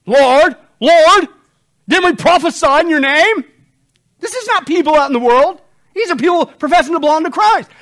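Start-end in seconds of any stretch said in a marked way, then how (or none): 0.1-3.4 pleading with the Lord. Acted. Voicing the pleading false believers.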